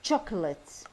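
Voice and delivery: "Chocolate" low, stressed on CHOC; first syllable of "Chocolate" leads, the rest falls; word stress demo. Shown as a demonstration. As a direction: model "Chocolate" with stress on the start. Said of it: "النبرة تصير قوية عليها".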